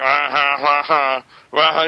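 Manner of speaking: spaced-out mock laugh; imitated laughter. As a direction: imitate a man laughing at someone. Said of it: "Even this guy's laughing at him".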